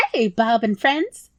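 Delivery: a hint of a chirpy rat; cheery rat. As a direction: greet them like old pals. Voices the rat.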